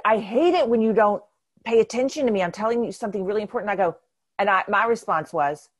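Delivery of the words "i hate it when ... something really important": raised, high complaining voice; retold exasperation. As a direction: imitate a partner's loud, insistent complaint.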